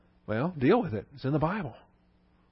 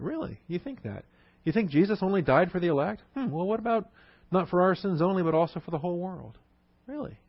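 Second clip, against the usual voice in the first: softer, high-pitched "Really?" of feigned disbelief; mock astonishment; 4 semitones higher, 5 dB quieter than usual. Shown as a demonstration. Teacher acting a questioner to a Bible skeptic, mock disbelief. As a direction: gently needle the skeptic with mock surprise.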